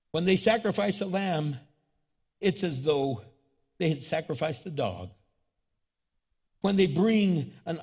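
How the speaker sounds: measured reading with long pauses; solemn scripture reading. Acted. Preacher reads God's words from Isaiah, solemn and measured. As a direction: proclaim each phrase, then let it sink in.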